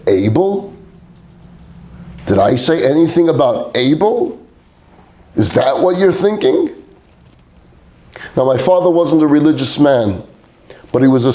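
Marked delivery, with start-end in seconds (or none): 0.1-6.7 incredulous, rising higher; animated. Retold or imitated. Father scolding son for doubting himself, animated disbelief. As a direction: challenge the word able with disbelief. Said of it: "my father got very animated".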